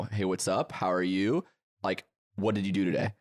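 "How are you" left rising at the end; upward inflection. Shown as a demonstration. Friend demonstrating Canadian talk, upward inflection. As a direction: keep "How are you" lifting, as if not done talking. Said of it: "they have an upward inflection".

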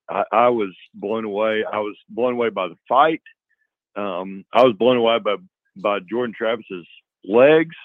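lost voice from cheering; hoarse voice. Real, not acted. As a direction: speak through a worn-out, hoarse throat. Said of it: "but I have no voice".

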